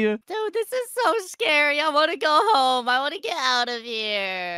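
high-pitched mock fright; playfully scared. Player wanting to go home, playfully scared.

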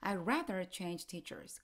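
"I'd" said as plain "I" before "rather change teachers"; silent would. Shown as a demonstration. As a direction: drop the d of "I'd" completely, going straight into "rather". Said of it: "would는 발음할 때 완전히 그냥 무시하세요".

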